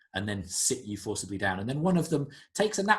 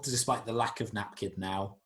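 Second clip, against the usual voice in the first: ordinary talk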